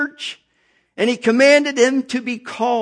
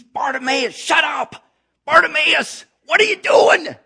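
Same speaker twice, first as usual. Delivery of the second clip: sharp scolding shout, rising higher; hushing crowd; 5 semitones higher than usual. Acted. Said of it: "many charged him that he should hold his peace".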